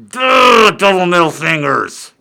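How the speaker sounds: loud, high exasperated outburst; mock defiance. Comic answering nosy questioners, loud defiant outburst.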